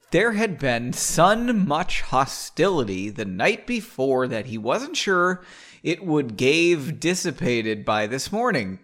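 slow, melodic read-aloud; story narration. A narrator's reading. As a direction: draw out the phrases as you narrate. Reads the novel aloud.

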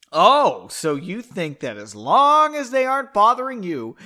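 loud, high indignant retort; heated acted quarrel voice; yelling back. A narrator's reading. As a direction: hurl it back, climbing in pitch. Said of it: "she yelled back".

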